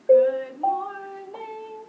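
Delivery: rising like a question; questioning tune. Shown as a demonstration. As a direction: sing it as if asking. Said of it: "Sounds like I'm asking".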